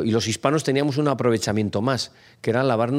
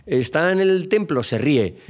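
raised mocking voice; 4 semitones higher than usual.

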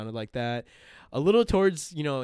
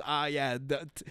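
raised, put-on Boston local; mock Boston accent; 4 semitones higher, 4 dB louder than usual. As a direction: imitate a Boston local giving directions. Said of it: "you know, Boston or, like, New York".

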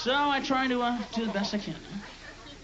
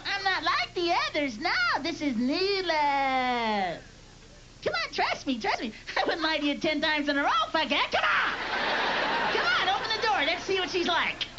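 smooth-talking love; 6 semitones higher than usual. Pretend. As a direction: sell yourself as new love. Voicing love's sales pitch.

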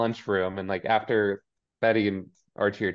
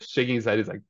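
ordinary talk, nothing marked

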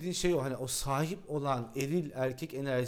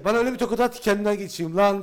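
mock breathless plea; 4 semitones higher, 6 dB louder, faster than usual. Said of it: "Sana dedi ki".

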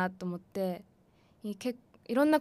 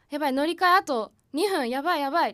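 higher, louder mock fluster; retold panic; 4 semitones higher, 4 dB louder, faster than usual. Rushing to catch a transfer with two minutes left, mock panic. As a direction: act out a small hurried panic.

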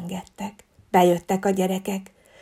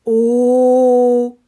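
put-on children's wondering oh; 3 semitones higher, 9 dB louder than usual. A narrator's reading. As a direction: gasp in wonder like a class of children. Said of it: "csodálkoztak a gyerekek".

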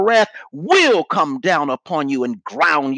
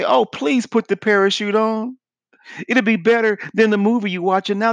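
higher-pitched, earnest mock plea; sincere zeal; 6 semitones higher than usual. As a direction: plead like an overeager believer. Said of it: "in sincere zeal and say".

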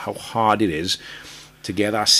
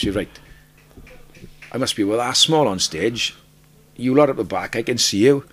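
rising to a louder friendly call to the back rows; calling out to crowd; 5 semitones higher, 5 dB louder than usual. Retold or imitated. Singer retelling his own stage patter to the crowd: building friendly call. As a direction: reach the people at the back. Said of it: "the first thing I did".

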